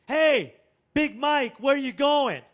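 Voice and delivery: a hint of a caring mom calling; mother calling out. Sandra Bullock calling to Big Mike in the rain, caring shout. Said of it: "she rolls down her window".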